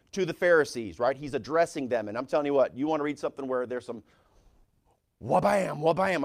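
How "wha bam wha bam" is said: mock body-slam impact noises, punchy; imitated smack-down sound effects; wrestling hit sounds. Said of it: "if this was W W E".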